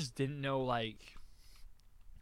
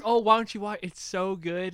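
higher, louder mock-enthusiastic quote; retold eager urging; 7 semitones higher, 8 dB louder than usual. Urging a scared friend to watch the show, retold eagerly. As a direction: talk it up like a big fan.

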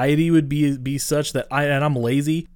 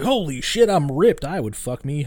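higher, louder mock-amazed exclamation; mock amazed boast; 3 semitones higher, 3 dB louder than usual. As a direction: ham up a kid's shock at his new muscles. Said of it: "be like".

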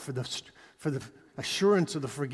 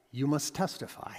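calm but firm; 4 dB quieter than usual. Acted. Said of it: "he says to you calmly but firmly".

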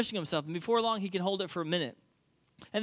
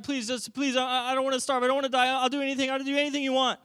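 put-on begging child; 2 semitones higher than usual. Children begging dad for dinner, pleading. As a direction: plead on and on, growing more desperate. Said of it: "they just begin to beg me".

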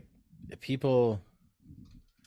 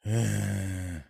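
deep sigh; 3 dB quieter than usual. Shown as a demonstration. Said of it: "talk in our true voices".

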